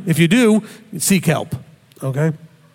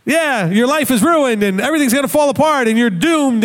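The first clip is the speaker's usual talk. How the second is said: higher, gleeful egging-on voice; hammed-up devil urging panic; mock cheering tempter; 5 semitones higher than usual. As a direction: cheer them toward ruin like a grinning tempter. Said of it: "and Hasatan's going".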